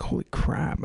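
breathy whispered amazement. Retold or imitated. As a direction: hush it out in awe. Amazed aside about Chopin quote.

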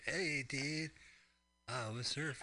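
laid-back surfer drawl; lazy beach surfer impression; surfer dude voice. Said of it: "It's just like".

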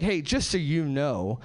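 a hint of a patient know-it-all; mock woman explaining. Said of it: "she's like".

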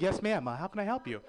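a touch of the helpful clerk voice; polite white voice. Retold or imitated. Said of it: "the white voice".

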